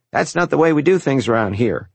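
lightly voiced stern nun; a hint of a strict nun; mimicking Sister Frances. A narrator's reading. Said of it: "the way I mimicked Sister Frances's voice".

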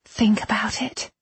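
high, hushed plea; earnest appeal. A narrator's reading. Irene's appeal, first take.

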